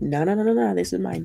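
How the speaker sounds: territorial claim on a partner; possessive. Acted. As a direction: stake your claim, mildly possessive. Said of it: "Very possessive, territorial".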